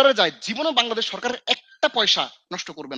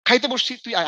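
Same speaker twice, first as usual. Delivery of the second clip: raised, mock-stern father's rebuke; father scolding; 4 semitones higher than usual. Father rebuking son for neglecting his own meal, mock scold. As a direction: replay dad's telling-off with a lifted voice. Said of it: "আব্বা খুব বকা দিত আমার".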